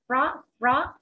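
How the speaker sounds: "pro" said like a Vietnamese sharp rising tone; rising stressed syllable. Shown as a demonstration. Teacher showing the accented first syllable, "pro" stressed and lifted. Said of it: "tức là dấu sắc ở âm một".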